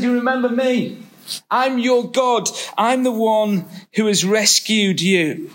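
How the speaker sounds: voice of God. Acted. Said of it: "This is God, and he's saying".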